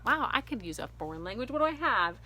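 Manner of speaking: retold eureka moment, pitch rising high; excited realization. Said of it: "I thought".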